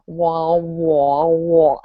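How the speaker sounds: lightly mimicked muffled adult drone; Charlie Brown adults. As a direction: mumble a flat wah wah like Charlie Brown's adults. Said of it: "like in Charlie Brown".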